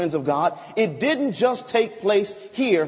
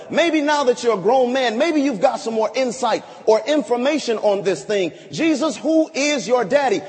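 mocking taunt; 3 semitones higher, 3 dB louder than usual. Crowd taunt in sermon.

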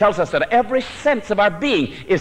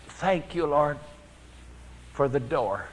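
a weak, much softer thank you; feebly; 2 semitones lower, 9 dB quieter, slower than usual. Retold or imitated. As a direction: barely get the words out, feebly. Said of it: "very feebly".

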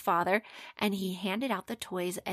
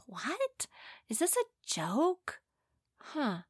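puzzled, higher voice; confused surprise; 7 semitones higher, 3 dB quieter, slower than usual. Acted. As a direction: ask it like a bewildered boy. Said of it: "He was like".

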